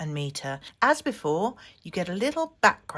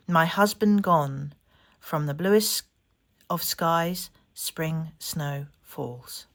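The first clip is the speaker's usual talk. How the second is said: poem reading; slower than usual. Acted. Reading a haiku aloud.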